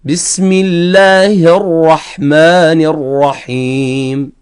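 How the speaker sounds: slow, drawn-out Quranic recitation on a level tone. Shown as a demonstration. Tajweed teacher reading the basmala as example, slow recitation. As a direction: recite measuredly with long vowels and heavy R's. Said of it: "راح نجي نقرأ بسم الله".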